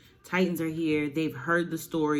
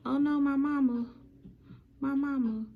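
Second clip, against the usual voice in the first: hammed-up distress; 10 semitones higher than usual. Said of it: "he about loses it".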